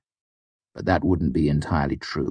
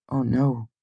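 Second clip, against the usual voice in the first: mournful; 6 semitones higher than usual. A narrator's reading. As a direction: lament it with a falling, raised voice. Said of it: "she said mournfully".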